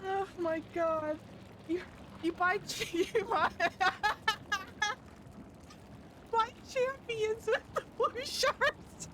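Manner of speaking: high, tearful voice cracking into laughs; real helpless, teary laughing speech; crying with laughter. Real, not acted. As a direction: fight to speak through a laughing fit. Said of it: "Oh, I'm crying".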